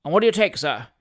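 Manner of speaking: mildly emphatic, falling away on "sir"; emphatic offer. A narrator's reading. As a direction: press "what do you take", then drop "sir". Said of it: "said emphatically".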